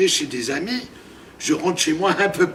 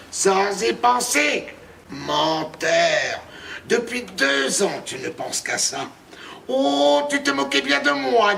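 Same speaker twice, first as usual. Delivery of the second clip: sly witch voice. Acted. Witch speaks for long.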